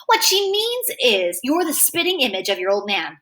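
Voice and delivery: smug, wicked know-it-all tone. Acted. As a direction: say it with a cocky grin. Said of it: "he's got this wicked know-it-all grin".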